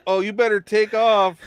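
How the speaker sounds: put-on loud Canadian accent. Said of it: "A s-, slight Canadian accent".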